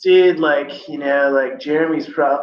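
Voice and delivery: casual California dude-speak; mock Californian slang delivery; California accent. Shown as a demonstration. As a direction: put on a laid-back California way of talking. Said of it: "that would be the California way to do it".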